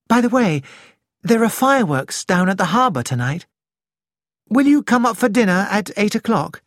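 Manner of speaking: Nick, bright. Acted. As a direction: sound cheerful on purpose.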